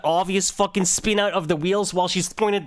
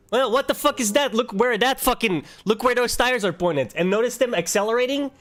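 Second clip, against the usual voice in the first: heated; 4 semitones higher than usual. Real, not acted. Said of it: "Okay, I'm getting heated".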